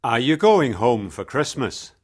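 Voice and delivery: cheery taxi driver with a smile; friendly smiling question. Acted. Taxi driver asks passenger about Christmas, friendly. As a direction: ask it with a smile in the voice. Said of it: "He smiled".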